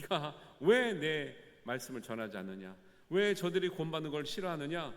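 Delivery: angry God. Pretend. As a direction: scold Jonah, building with each question. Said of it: "하나님이 더 화를 내야 될 텐데".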